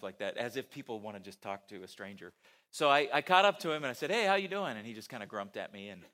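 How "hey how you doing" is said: bright, louder friendly greeting; cheery hello. Retold or imitated. Preacher greeting a grumpy stranger on the street, cheery and loud.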